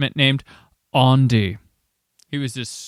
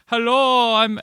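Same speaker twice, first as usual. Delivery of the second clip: mock Rastafarian accent; 9 semitones higher, slower than usual. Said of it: "be like".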